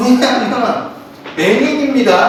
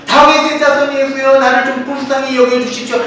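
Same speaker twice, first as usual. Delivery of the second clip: crying out again; 2 semitones higher than usual. Retold or imitated. Beggar ignoring the crowd, calling Jesus again, mild mock cry. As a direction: plead over the crowd, lightly acted. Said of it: "계속해서 시끄럽게 막 떠듭니다".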